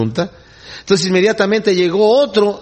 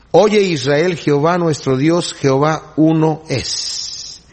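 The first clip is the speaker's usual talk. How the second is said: solemn recitation; 2 semitones lower, slower than usual. Acted.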